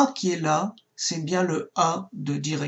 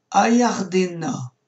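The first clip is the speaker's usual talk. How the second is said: "Ayardena" slowly, with the stress on DE; stress on penultimate syllable; slower than usual. Shown as a demonstration. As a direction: lean on "de" in "Ayardena", not on the final "na". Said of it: "l'accent tonique est sur le D ici". (« Ayardena » lentement, accent tonique sur « de »)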